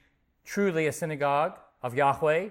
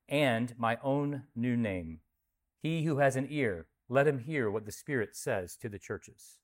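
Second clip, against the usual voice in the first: measured, solemn Bible reading; scripture reading. Acted. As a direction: read the passage with weight and calm. Reads scripture aloud to congregation.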